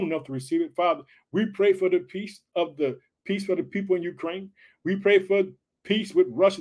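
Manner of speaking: earnest public prayer, punctuated with "Father"; leading prayer. Real, not acted. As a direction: pray aloud for the people, phrase by phrase. Leads the opening prayer.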